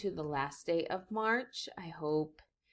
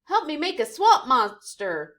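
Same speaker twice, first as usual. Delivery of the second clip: higher, louder request; eager ask; 6 semitones higher, 9 dB louder than usual. Acted. Vic inviting Joe to play, eager. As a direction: ask him hopefully. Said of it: "Vic asks Joe".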